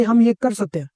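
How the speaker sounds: assured statement with a falling end; certainty and authority. Shown as a demonstration. Coach showing how to answer a suggestion, certain and authoritative. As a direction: state it firmly, as settled. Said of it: "पूरी certainty और authority के साथ बोलो".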